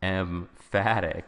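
"emphatic" said slowly with a clear M; careful enunciation. Shown as a demonstration. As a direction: draw out "emphatic", sounding the M before the F. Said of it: "there's an M".

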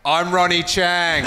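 lightly voiced, slow I'm Ronnie Chang; Ronnie Chang impression. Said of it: "I'll do your Ronnie Chang impression".

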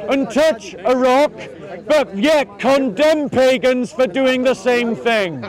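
slow, measured denunciation; open-air preacher listing accusations; street preaching. Real, not acted. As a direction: hammer out each charge with weighty pauses. Preaches against the opponent's rites.

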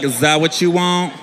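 low, slow taunting chant; wife taunting in a low repeated chant; wife mocking. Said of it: "She was like".

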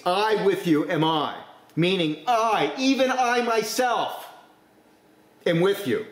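I drawn out slow and high, even I myself soaring; emphatic I. Shown as a demonstration. Preacher showing the Greek emphasis to his church, slow and emphatic. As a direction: lean hard on each I, stretching it out. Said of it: "you're making it exceptionally emphatic".

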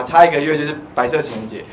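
ordinary talk, nothing marked

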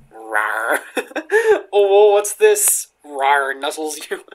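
hammed-up playful creature, loud with rising swoops; mock cutesy roleplay. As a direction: play at being a nuzzling beastie, drawn out.

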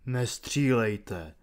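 low, soft and slow warning; steady the officer without panic; calm warning. A narrator's reading. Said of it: "varoval Julius". (klidné, tiché varování)

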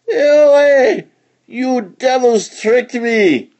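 high, loud furious cry; shrieking rage at the tricksters; angry shout. A narrator's reading. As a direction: yell at the devils who tricked him.

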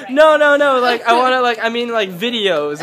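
loud, high retold protest, easing off; flustered backtracking. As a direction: hurriedly take it back, starting loud. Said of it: "and then she's like".

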